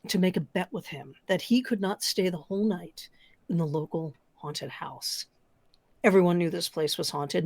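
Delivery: spooky storyteller voice; story narration. Acted. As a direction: tell it like a campfire tale.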